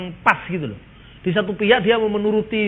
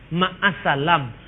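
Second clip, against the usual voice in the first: slow spelled-out greeting; much slower than usual. Shown as a demonstration. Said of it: "Ma'assalam itu artinya apa?".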